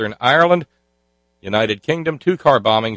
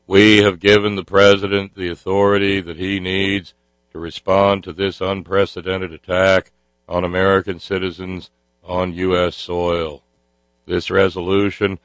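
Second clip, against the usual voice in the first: Senator Kerry monotone. Retold or imitated. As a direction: drone it out like a solemn senator. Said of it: "I get to do my Senator Kerry impression".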